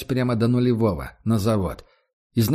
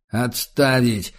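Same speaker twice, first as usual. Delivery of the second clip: slow, forced through gritted teeth; 3 dB louder, much slower than usual. Acted. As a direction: squeeze it out through clenched teeth. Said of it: "сквозь стиснутые зубы выдавил".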